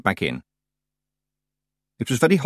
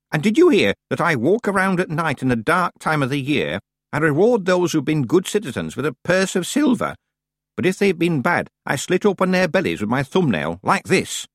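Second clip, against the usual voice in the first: put-on high-pitched old witch telling her own legend; theatrical old-woman storyteller; old witch, menacing; 7 semitones higher than usual. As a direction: relish the grisly threat in a raised voice. Plays Miss Treason.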